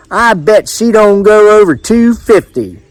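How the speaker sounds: high-pitched country fairgoer; confident bettor. A narrator's reading. Edwards betting on the woman's weight, high confident voice. Fairgoer making his bet.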